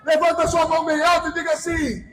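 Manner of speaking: proclamation building to a drawn-out shout; climactic preaching. Real, not acted. Preacher proclaiming every tongue will confess, climactic preaching. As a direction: build steadily to a ringing declaration.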